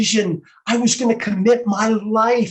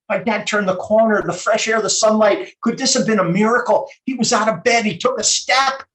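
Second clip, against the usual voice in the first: rising hope; 3 semitones higher, 3 dB louder than usual. Acted. Son seeing his sick dad recover, mounting excited hope. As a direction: grow more amazed with each phrase. Monologue builds to miracle hope.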